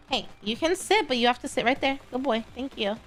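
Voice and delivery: talking to a dog. Real, not acted. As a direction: coax the dog kindly.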